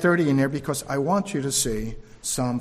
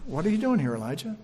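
quiet voice of God; 5 dB quieter, faster than usual. Acted. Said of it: "a voice came to him saying".

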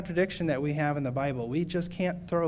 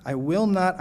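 louder repeat; 3 semitones higher, 6 dB louder than usual. Shown as a demonstration. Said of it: "It's emphatic".

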